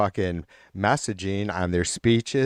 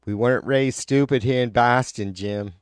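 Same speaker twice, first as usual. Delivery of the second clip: mock Boston accent; 3 semitones higher than usual. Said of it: "fucked up Boston accent".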